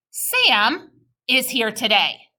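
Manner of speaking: Sam is here today in smooth scoops, slowly; scooped phrasing. Shown as a demonstration. Teacher reading with kids, slow scooped phrasing. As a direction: lead the class slowly and smoothly. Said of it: "let's read it together".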